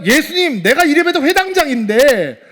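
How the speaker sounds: loud, high-pitched angry protest; outraged official demanding respect; indignant outburst. Acted. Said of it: "회당장이 화를 냈을까요?".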